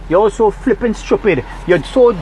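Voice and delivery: scornful, slowed-down jab at the listeners; angry insult. Real, not acted. Ranting at fellow Trinidadians, genuinely angry. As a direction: spit out the insult in real frustration. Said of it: "I'm sorry I get angry".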